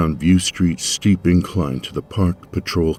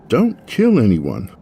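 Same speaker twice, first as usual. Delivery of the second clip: slower, weighing each word, stress on kill; slow deliberate repeat; 4 semitones higher, 3 dB louder than usual. Acted. Tamsin repeating Finn's warning to herself, slow and deliberate. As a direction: mull the words over slowly. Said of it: "I repeated Finn's last words".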